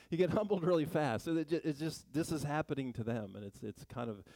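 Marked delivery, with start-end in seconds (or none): 0.1-1.2 louder, punching get; emphatic punchline. Real, not acted. Preacher landing a joke to the congregation, emphatic. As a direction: land it hard on get.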